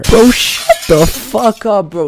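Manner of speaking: slow, high, loud, exasperated snap; mock scolding. Scolding his own whiny excuse, slow loud snap. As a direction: slowly shout down your lazy self.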